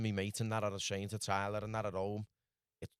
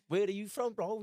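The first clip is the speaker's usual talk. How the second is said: much higher, louder mock voice; a hammed-up higher street voice; imitating the stranger; 12 semitones higher, 3 dB louder than usual. The stranger questioning him outside the motel, higher and mock-loud. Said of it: "And he said".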